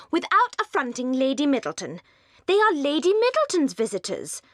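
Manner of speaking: a flustered wife climbing in pitch; startled protest. Acted. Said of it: "Fanny was startled".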